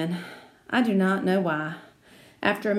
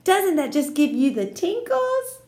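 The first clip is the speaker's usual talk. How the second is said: very high, slow and louder; giddy little show-off; gushing excitement; 10 semitones higher, 5 dB louder than usual. Acted. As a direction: squeal it with delight. Lucille gushing.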